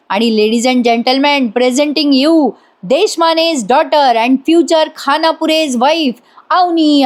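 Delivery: slow, grand announcer voice; mock announcer. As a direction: draw it out like a showman.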